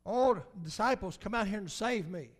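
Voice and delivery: calling out to the disciples, half-joking; crying out. Retold or imitated. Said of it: "he cried out".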